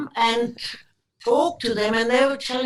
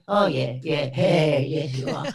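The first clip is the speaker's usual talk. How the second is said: mock dismissive, lower-pitched brother; lower, doubting retold reply; sceptical brother; 5 semitones lower than usual. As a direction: imitate a brother humouring an unlikely claim. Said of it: "And he went".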